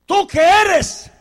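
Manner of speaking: insistent questioners. Retold or imitated. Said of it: "le preguntaron a Juan".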